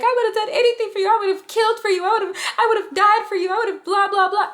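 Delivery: high, fast, tearful yelling; going off. Retold or imitated. Tells ex in the car she'd have died, tearful yelling. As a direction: let it all pour out in a rising rant. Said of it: "I start going up".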